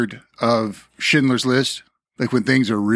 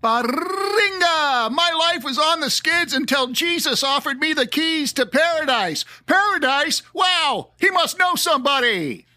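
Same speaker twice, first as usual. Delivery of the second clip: crackly lonely radio dj; 13 semitones higher than usual. Pretend. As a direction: sell it like a radio ad pitch. Fake ad testimonial voice.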